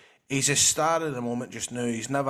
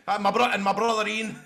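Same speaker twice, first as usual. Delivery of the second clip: lightly voiced, high-pitched impression; hint of a put-on voice, amused; Dick Campbell catchphrase; 8 semitones higher, 3 dB louder than usual. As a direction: imitate a man's stock phrase, pitched up. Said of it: "So it's like".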